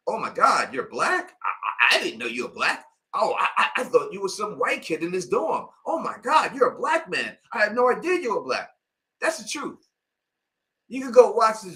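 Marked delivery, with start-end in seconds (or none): 0.1-8.7 high, gushing disbelief; a quoted crowd of surprised fans, raised pitch; mock surprised commenters. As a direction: mimic shocked fans gasping. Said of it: "of people saying".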